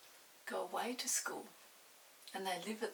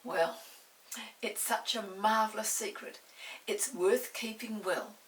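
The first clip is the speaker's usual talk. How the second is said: put-on louder, firm boy's voice; confident boy; 7 dB louder than usual. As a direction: assure her firmly. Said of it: "said Peter".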